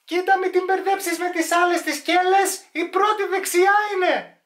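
very high, loud put-on voice; acted shouted warning. Warning not to mix up the cellars, acted shouted warning. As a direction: shout instructions in a squealing voice.

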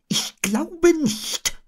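very high, very slow owl; Eule. A narrator's reading. Owl declining the rescue, very high and slow. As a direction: labour it out after hard thought. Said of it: "sagte Eule".

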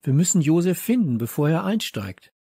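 quick, high urging; urgent call. A narrator's reading. Leo to his friends searching for Josef, urgent.

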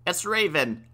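high exclamation of discovery; grandfather's shocked outburst; startled cry. A narrator's reading. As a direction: cry out in alarm. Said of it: "cried the grandfather".

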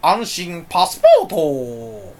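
ad jingle impression. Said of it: "そこに怒ってる".

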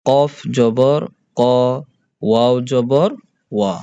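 measured letter-by-letter drill, each syllable like "সা" held long; spelling drill. Shown as a demonstration. Teacher shows pupils the letters with jabar, measured spelling drill. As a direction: spell out "সা জবর সা" in separate, drawn-out beats. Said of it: "হরফগুলোর উচ্চারণগুলো করে বলি দেখি".

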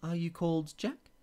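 the Queen tries a first guess, lifted and high. A narrator's reading. Queen guessing the little man's name, high and hopeful. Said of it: "she said at first".

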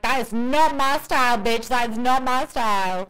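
imitating an indignant creator; offended YouTuber. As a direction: snap back like an insulted YouTuber. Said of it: "be like".

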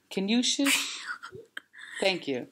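soft unvoiced shush to quiet him; hushed whisper. Real, not acted. Mom whispering to her five-year-old to hush. Mother hushing her son.

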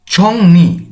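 ছংনি said slowly with n after ng; ছংনি, n in place of r; r sounded as n. Shown as a demonstration. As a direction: clear n opening the last syllable of ছংনি. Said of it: "তখন আমরা রিওলটিকে নয়ের".

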